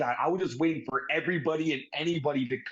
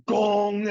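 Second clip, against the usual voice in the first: imitated gong; 6 semitones higher, 5 dB louder than usual. Imitates the Undertaker's entrance gong.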